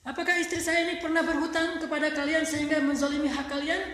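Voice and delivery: loud, high pressing question; urgent question. Retold or imitated. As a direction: press the neighbours hard for an answer. Husband questions neighbours about debts.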